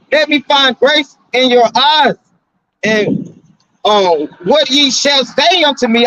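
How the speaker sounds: preacher reading King James aloud; scripture reading. Acted. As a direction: lift the voice and lay out the verse slowly.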